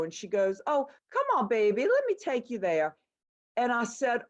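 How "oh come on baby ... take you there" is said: higher-pitched sweet-talking store helper; helpful New Orleans local. Retold or imitated. Woman to a lost Kmart shopper, imitated helpful local voice. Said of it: "I asked the woman".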